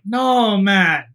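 hammed-up disgusted friend; mock appalled friend. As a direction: play the horrified buddy, over the top. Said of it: "And Yuri's like".

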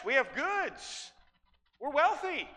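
a hint of smug bragging rising to a high shout; mock boast building to a shout. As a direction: build the brag until it bursts out. Preacher echoes the boast, building.

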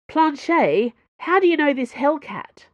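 high, loud outraged demand from the floor; indignant demand. Acted. Pinned man demands answers from Planchet, outraged and loud.

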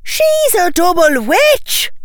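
put-on very high, slow girlish cry; high shout. Tracy announcing Susan's secret, high shout. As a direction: shout it at the top of the voice range. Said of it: "shouted Tracy, her voice so high it cracked".

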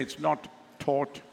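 South African rounded "aw" in "taught", said slowly; South African accent. Shown as a demonstration. Preacher has them repeat after him, South African accent. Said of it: "Can you say that after me".

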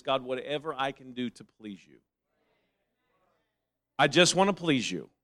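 very soft, low voiced prayer; humble prayer. Preacher voicing a believer's devotion to God, hushed and humble.

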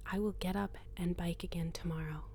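softly stressing will; hushed, promising herself will; whispered promise. Acted.

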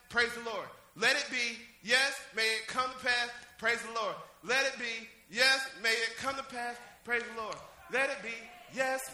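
low, even, rhythmic recitation; repeated litany. Shown as a demonstration. Preacher reciting what amen means, steady litany. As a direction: recite each phrase evenly like a litany.

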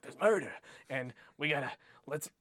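lightly put-on pub gossip voice; half-hearted impression of a pub local spreading news; wrong character voice. Pub-goer passing on murder gossip, in a lightly put-on wrong voice. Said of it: "That's wrong voice".

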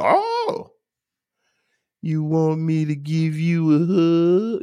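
very high, sneering fake sympathy; mock the offer of a hug. Mocking reply to shared feelings.

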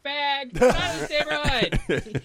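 high, slow hammed-up slur; mock homophobe shout. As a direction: play an exaggerated bigot at the window. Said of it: "opened the window and was like".

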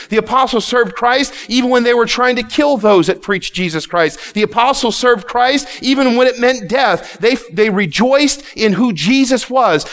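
driving, emphatic sermon delivery; forceful preaching. Real, not acted. Preacher exhorts congregation to rejoice in Christ, forceful preaching. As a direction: preach it with rising conviction.

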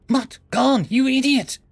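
high, loud exasperated snap; snapping. A narrator's reading. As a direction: scold him sharply, high and loud. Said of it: "Estelle snapped".

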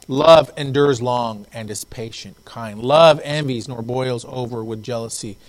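emphatic pulpit reading, phrase by phrase; scripture reading. Real, not acted. Pastor reading on love to congregation, emphatic scripture reading. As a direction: read out scripture with measured weight.

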